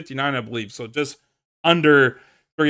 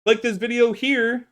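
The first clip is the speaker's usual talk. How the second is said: high-pitched, projected outro announcer; yelling sign-off; 7 semitones higher than usual. Real, not acted. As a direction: belt out the wrap-up to the viewers. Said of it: "I don't know why I'm yelling".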